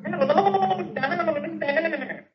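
distant, high, long-drawn ghostly call; voice from the sink. Acted. Sergeant hears Beetle through the sink, distant eerie call. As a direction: sound muffled down a pipe, soft and stretched. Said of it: "hears Beetle's voice come out of the sink".

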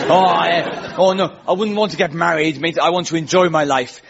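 put-on Essex mate; lightly mocked Essex accent. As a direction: advise as a bloke from Essex. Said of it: "many of them were from Essex".

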